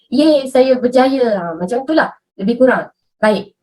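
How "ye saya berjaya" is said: slow, drawn-out joyful cry; cheerful drawn-out shout of success; happy success. Shown as a demonstration. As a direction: sing out your win like you just got it. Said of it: "Macam kalau kamu gembira dapat sesuatu".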